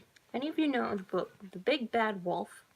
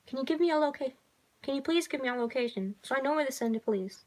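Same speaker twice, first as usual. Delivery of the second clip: calming dispatcher; 5 semitones higher, faster than usual. Acted. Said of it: "trying to calm the girl".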